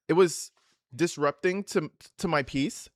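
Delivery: matter-of-fact, choppy sentences in mock LA style; mock LA talk. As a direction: parody of halting LA phrasing. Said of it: "Super matter of fact, short stop sentences".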